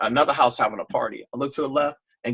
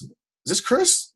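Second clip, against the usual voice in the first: higher, slow unsure voice; dad unsure who is calling, higher and slow; voicing his dad; 13 semitones higher, slower than usual. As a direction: play the father not recognising him. Dad answers the phone.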